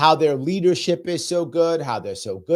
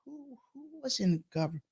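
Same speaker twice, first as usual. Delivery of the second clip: mock realisation pinning the blame on the governor; sarcastic gotcha; 9 semitones higher, 6 dB louder than usual. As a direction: drag out the accusation mockingly.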